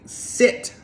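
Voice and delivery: whispered "Sit"; whispered command. Retold or imitated. The owner tells the hyper dog to sit, in a whisper. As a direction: breathe the command without voice. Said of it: "You're just like".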